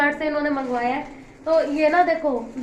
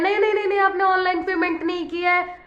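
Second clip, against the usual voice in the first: mock yell; 3 semitones higher than usual. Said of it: "और चिल्लाए जा रहा है".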